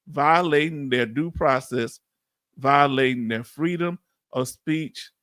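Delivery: deliberate, slowing read-out; reading aloud. Acted. Host reads out charges against Trump, deliberate measured reading. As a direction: read each phrase out in a measured way.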